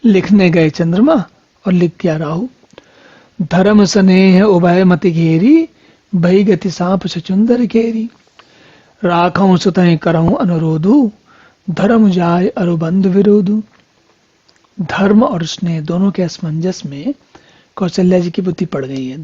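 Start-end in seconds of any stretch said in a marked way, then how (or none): 3.4-13.6 slow scriptural couplet, line endings held long; verse recitation. Acted. Preacher reciting Kaushalya's dilemma to listeners, slow verse recitation. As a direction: recite it in measured, stretched syllables.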